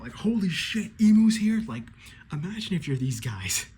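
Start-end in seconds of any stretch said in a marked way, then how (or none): 0.1-1.6 high, loud panicked yell; mock terrified outcry; freaking out. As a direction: shriek it like the boss just showed up. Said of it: "freaking out".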